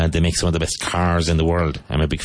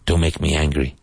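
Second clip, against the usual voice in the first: Bruce Banner quote; 2 semitones lower than usual. Retold or imitated. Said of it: "Bruce Banner".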